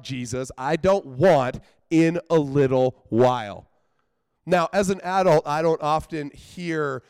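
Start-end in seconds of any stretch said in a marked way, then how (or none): 0.6-3.7 exasperated refusal. Real, not acted. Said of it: "I hate it".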